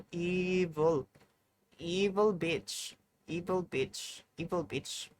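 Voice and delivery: slow, drawn-out evil taunt; mock evil. Streamer hearing their own evil sound, mock evil and drawn out. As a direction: stretch it out slowly, playfully evil. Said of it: "I sound so evil".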